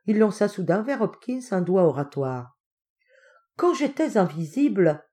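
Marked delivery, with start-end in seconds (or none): 3.6-5.0 pompous opening of a speech; self-important. Acted. Uncle starting his favourite tale to Hopkins, self-important. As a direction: begin as if orating to an audience. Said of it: "d'un air important".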